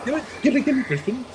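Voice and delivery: high, haughty cartoon baby villain; Stewie Griffin. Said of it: "my Stewie is pretty bad".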